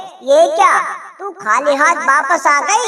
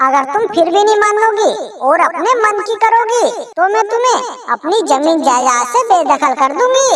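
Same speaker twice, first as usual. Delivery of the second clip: nagging mother-in-law. Acted. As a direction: nag about the costs.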